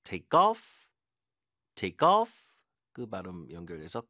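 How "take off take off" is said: "take off" with "off" punched higher and louder; stress on off. Shown as a demonstration. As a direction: hit "off" hard, both times. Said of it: "이것도 뒤에 강세 줘야 되고".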